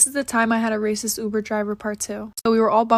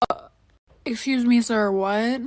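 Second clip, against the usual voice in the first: sassy excuse me. Pretend. To the racist Uber driver, the imagined bold comeback, incredulous. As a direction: make it a bold confused challenge. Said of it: "But not for real".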